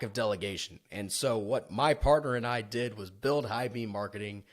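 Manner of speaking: radio announcer voice. Acted. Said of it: "In my best smoky radio guy voice".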